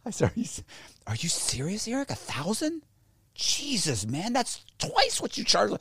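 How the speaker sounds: high, soft, laughing incredulity; laughing disbelief. Retold or imitated. Man haggling with Eric, laughing disbelief. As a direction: laugh at the asking price.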